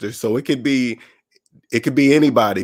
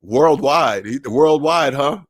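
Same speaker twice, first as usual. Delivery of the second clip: doubtful echo; slower than usual. Retold or imitated. Friend hears his worldwide plan, mildly incredulous. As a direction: imitate a friend's disbelieving echo. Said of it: "see the look on their face".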